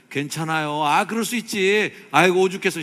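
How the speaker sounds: loud, high, rousing comfort; hearty reassurance. Shown as a demonstration. Preacher leads congregation in three comforting phrases, hearty and loud. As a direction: call out the comfort for all to follow. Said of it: "삼 종 세트로 한번".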